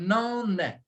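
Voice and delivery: "não é" alongado, com as sílabas ligadas; quase nananenê. Shown as a demonstration. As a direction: estique "não é" como som de ninar. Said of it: "É quase o nananenê". ("não é" em modelo de pronúncia)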